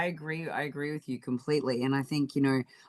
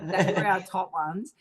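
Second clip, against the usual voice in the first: slow, laughing through the words; 4 semitones higher than usual. Real, not acted. Cohost repeating their top picks, laughing. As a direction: chuckle as you repeat it.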